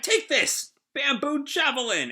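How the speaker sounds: high-pitched battle cry; hammed-up attack call; Usopp. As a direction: call out the special move like an anime hero.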